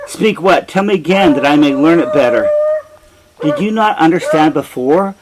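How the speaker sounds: angry king. Acted. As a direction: hurl the questions at him impatiently. Oedipus angrily demands the prophecy.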